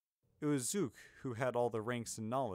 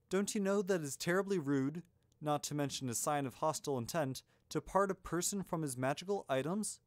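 higher-pitched, lightly acted indignation; a touch of outrage; indignant hero; 5 semitones higher, 4 dB louder than usual. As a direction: scold them for a terrible rudeness. Narrator voices indignant young hero.

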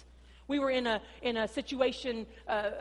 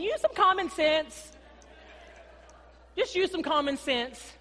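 slow patient telling; 5 semitones higher, 4 dB louder than usual. Retold or imitated. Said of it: "Jesus is just saying".

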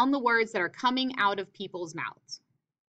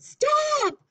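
"Stop!" yelled high and loud; teacher demonstrating a yelled "Stop!"; shouted stop; 4 dB louder than usual. Shown as a demonstration. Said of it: "something that would be shouted".

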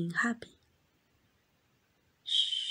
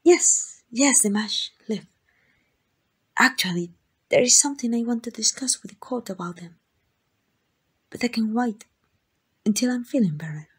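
louder, hurried, too-quick assurance; nervous overeager cover; 3 semitones higher, 5 dB louder than usual. Acted. The royal covering for the mage before the Lord Master, nervous haste. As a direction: rush the answer to hide the lie.

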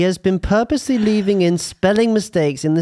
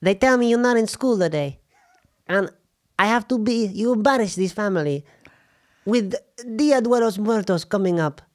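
a hammed-up Mexican accent, a touch higher; Mexican mum accent; 4 semitones higher than usual. Mexican mum accent scolding her son Arturo for skipping school. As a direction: play the scolding Mexican mama in a mock accent. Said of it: "you're Mexican mum".

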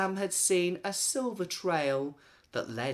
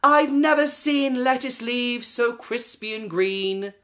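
higher, louder delighted yelp; 8 semitones higher, 8 dB louder than usual. Acted. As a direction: squeal at the crisp lettuce. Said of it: "Samantha yelped".

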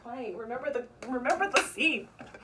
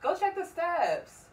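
mock accusing; 2 semitones higher, 6 dB louder than usual. Feigning outrage at the son.

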